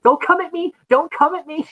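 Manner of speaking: high-pitched imitation of a scared man; mock frightened. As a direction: play up his panic as he wards it off. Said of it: "the Nick being afraid".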